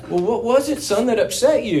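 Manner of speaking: a lightly voiced dad coaxing an answer; hint of a tender father asking his boy; caring father. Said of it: "He's like".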